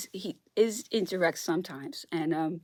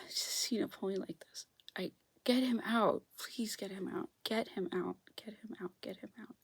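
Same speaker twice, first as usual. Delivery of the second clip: softer and softer, pleading whisper; whispered plea; 8 dB quieter than usual. Real, not acted. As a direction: beg quietly, fading out. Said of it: "Oh, I'm gonna cry".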